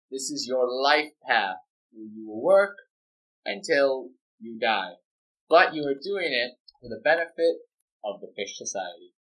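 lightly voiced lecturing professor; slow, measured hint of a professor.

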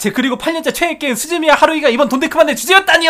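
speed-reading. Shown as a demonstration. Co-host racing through a long listener message, speed-reading. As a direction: race through the long message without stopping. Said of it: "제가 최대한 빨리 읽겠습니다".

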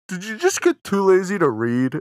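high, loud laughing question; amused teasing; laughing tease. Real, not acted. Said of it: "teasing question, laughing".

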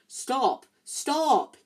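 frantic shouted commands; yelled. A narrator's reading. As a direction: yell at the car to obey. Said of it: "he yelled".

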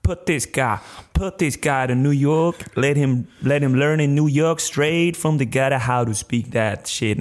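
put-on slow, emphatic street-accented English; mock gangster accent. Parents sending him to New York, mock gangster accent. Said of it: "are you going to do this accent".

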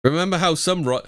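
wobbly put-on British accent; attempted British accent. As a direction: have a go at a British accent, badly. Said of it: "I can't do the British's accent".

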